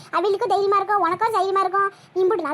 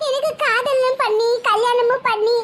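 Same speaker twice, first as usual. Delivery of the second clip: slow, higher, laughing bitterly at herself; 4 semitones higher, much slower than usual. Acted. Saroja mocks her own love and marriage, slow bitter laugh. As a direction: let a rueful laugh break the words.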